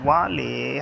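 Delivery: वाले stretched slowly upwards; rising tone on वाले. Shown as a demonstration. Teacher repeating the odd-sounding tune, वाले rising slowly. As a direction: draw out वाले, lifting the end. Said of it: "ये आपकी rising टोनेशन है".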